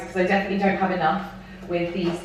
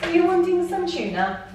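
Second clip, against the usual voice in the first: pet talk; 11 semitones higher than usual. Real, not acted. Cooing to birthday cat.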